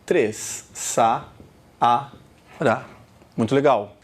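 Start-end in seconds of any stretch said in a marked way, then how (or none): 0.7-1.3 Saara split by pauses, Sa... a... ra; syllable by syllable. Shown as a demonstration. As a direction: count off Saara in three low, separate beats. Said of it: "Você pronunciou quantas sílabas?".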